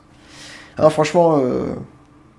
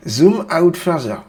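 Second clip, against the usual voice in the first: slow, loud, higher American-accented command; exaggerated American accent; 5 semitones higher, 5 dB louder, slower than usual. Shown as a demonstration. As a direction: lay the American accent on thick. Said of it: "faut bien mettre l'accent américain".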